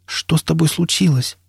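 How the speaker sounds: high, aghast question; horrified. A narrator's reading. Nastya asks her man what happened, horrified. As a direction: ask in horror, voice lifted. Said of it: "в ужасе спросила Настя".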